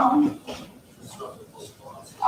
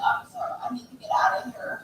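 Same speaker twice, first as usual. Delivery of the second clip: breathless pained whisper; 7 dB quieter than usual. Real, not acted. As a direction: whisper it, barely voiced. Injured woman pleading to officer.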